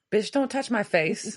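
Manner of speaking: usual speaking voice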